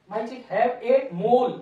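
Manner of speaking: very slow, each word drawn out; slow dictation. Shown as a demonstration. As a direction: dictate it for the class to copy. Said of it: "teacher dictates while writing". (धीरे-धीरे बोलकर लिखवाना)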